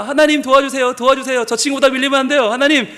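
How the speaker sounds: lightly pleading prayer; earnest praying. Retold or imitated. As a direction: rattle off a mock-earnest plea to God. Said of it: "열심히 기도를 합니다".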